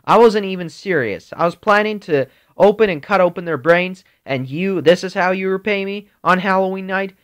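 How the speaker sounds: hammed-up wife walking out; mommy upset. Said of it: "Mommy's like".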